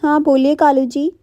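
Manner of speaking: a hint of a polite shop bird; lightly voiced Tony.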